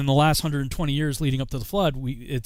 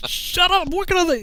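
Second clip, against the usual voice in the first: higher, louder mock snap at the parrot; annoyed shout; 4 dB louder than usual. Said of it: "And I'm like".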